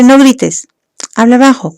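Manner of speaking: put-on a parent yelling at a child not to yell. Shown as a demonstration. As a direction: play the yelling parent, half-hearted. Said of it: "como yo en este momento".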